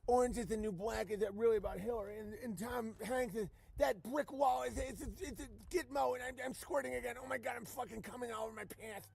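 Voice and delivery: mock ecstatic Q follower. Parodying aroused Q follower.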